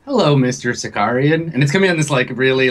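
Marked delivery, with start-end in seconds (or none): 0.0-1.5 lightly voiced talking computer; computery voice. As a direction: speak as a voice box, just a hint of machine. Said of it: "computery voice".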